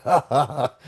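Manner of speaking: dad's laugh, mimicked; imitated laugh. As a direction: mimic dad bursting out laughing. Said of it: "he just starts laughing".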